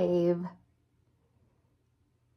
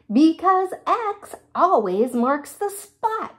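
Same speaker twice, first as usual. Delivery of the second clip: excited; 6 semitones higher, 4 dB louder than usual. Acted. Quincy's answer, read with energy.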